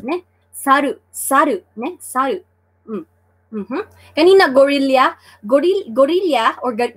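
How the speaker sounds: normal talking voice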